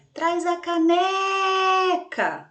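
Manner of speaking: high, loud call with "caneca" stretched on NE; pretend shout. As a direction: call out slowly, holding NE very long. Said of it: "eu estiquei ali o né". (grito de faz de conta, esticando o NE)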